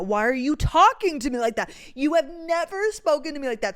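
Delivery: taken aback and demanding an answer; retold indignation. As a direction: push it out, affronted and incredulous. Acted upset reaction to boyfriend.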